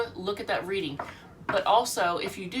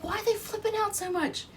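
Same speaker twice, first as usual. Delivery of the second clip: mock puzzled self; 14 semitones higher than usual. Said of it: "I was like".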